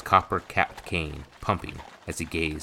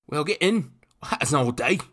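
high, loud rough urging; prodding coachman; 11 semitones higher, 6 dB louder than usual. A narrator's reading. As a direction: hurry them in, rough and pushy. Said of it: "the coachman prodded".

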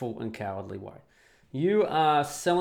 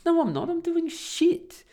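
retold protest; 5 dB louder, slower than usual. Retorting to wife, retold argument.

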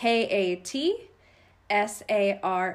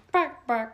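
mock bird squawks; 4 semitones higher than usual. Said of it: "Ugly duckling".

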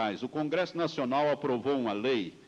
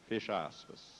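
dictating; 5 semitones lower, 8 dB quieter than usual. Acted. Reading quote punctuation aloud.

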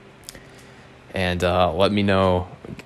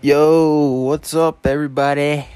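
high, loud hype intro; big energetic hello to listeners; hyped greeting; 6 semitones higher, 3 dB louder than usual. Acted.

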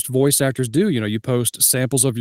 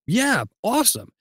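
eager yes; 8 semitones higher than usual. Retold or imitated. Acting eager yes to villain role.

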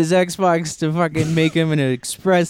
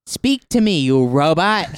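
mock angry yell; 2 semitones higher, 4 dB louder, slower than usual. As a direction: bark orders at the machine. Yelling at the console.

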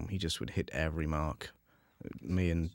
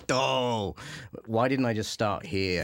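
mock exasperated; 5 semitones higher, 4 dB louder, slower than usual. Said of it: "she's, like, bashing her head, going".

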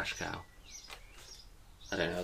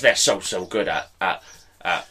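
lightly put-on football manager impression; Jesse Marsh. Podcaster mimics a football manager for his co-host, lightly put-on impression. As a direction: give a hint of someone else's voice. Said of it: "It's Jesse Marsh".

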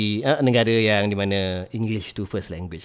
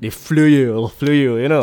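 a light, louder mock Irish accent; 4 semitones higher, 8 dB louder, slower than usual. Teacher jokingly imitating accents learned from Irish movies, light Irish accent. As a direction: toss off a quick Irish-sounding "they flew you". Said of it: "Irish punya movie lah".

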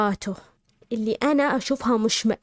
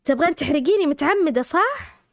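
furious fiancé; 5 semitones higher than usual. Retold or imitated. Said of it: "وهو مرة معصب ويقول".

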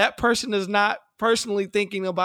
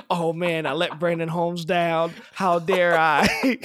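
slow, hammed-up self-pity; mock dramatic regret; mock player lament; 4 dB louder, slower than usual. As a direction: act out a player moping over letting a fan down. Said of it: "he's not in his home saying".

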